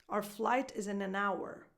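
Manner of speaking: "Our" as "ar", "hour" said in full; weak "Our", full "hour"; reduced our. Shown as a demonstration. Coach giving an example with both words, reduced our. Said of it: "an example with both words".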